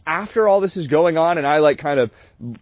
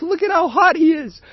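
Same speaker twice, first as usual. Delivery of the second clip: high, louder gushing imitation; imitating the date; 4 dB louder than usual. Mimicking the date showing off her crush, high and gushing. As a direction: gush about the guy, pitched up. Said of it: "She's like".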